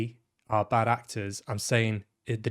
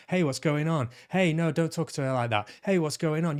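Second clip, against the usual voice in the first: raised, higher mock yelling at someone; mock shouting; 5 semitones higher than usual. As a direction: imitate the constant shouting of the scene. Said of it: "it was just constant shouting".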